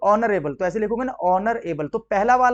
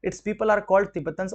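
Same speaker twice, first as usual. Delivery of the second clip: slow reading; much slower than usual. Shown as a demonstration. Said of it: "reading the sentence".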